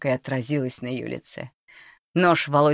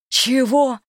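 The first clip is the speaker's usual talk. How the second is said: much higher, louder bark; 10 semitones higher, 7 dB louder than usual. Acted. Volodya demands an answer from the cook, barked. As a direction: snap it at her, furious. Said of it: "рявкнул Володя".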